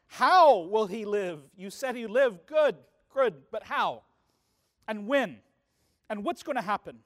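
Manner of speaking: a hint of a frantic father, loud opening then slowing; desperate father. Desperate father objecting to Jesus with anxious questions. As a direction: pepper him with anxious questions. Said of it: "the desperate father's objections".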